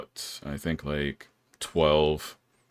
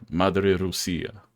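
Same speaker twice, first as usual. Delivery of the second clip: a slow, lightly voiced "Madre Rusia" quoting Misha; imitating Misha; 2 semitones higher, slower than usual. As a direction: quote the coworker's answer slowly and deliberately. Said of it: "He's like".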